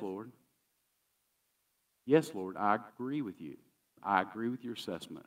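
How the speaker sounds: humble woman. Acted. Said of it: "What does she say?".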